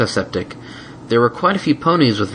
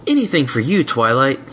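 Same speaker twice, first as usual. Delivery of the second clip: put-on eager, devoted little boy; happy to help; young dragon voice; 5 semitones higher than usual. Spike voiced.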